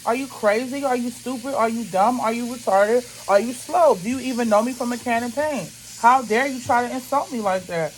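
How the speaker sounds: mildly heated imagined confrontation; indignant challenge. Retold or imitated. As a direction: fire off offended questions at someone absent. Acted indignant rant at the agent.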